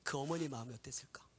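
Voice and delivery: soft, unvoiced solemn whisper; whispered preaching. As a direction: whisper the revelation hushed. Whispered sermon. (속삭이는 설교)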